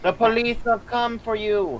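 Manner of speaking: mock ominous. Teasing ominous warning.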